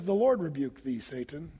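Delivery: calm, collected, unhurried rebuke; calm and cool. Retold or imitated. Michael the archangel calmly rebuking Satan, cool and collected. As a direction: say it cool and steady. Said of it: "he says it calmly, coolly".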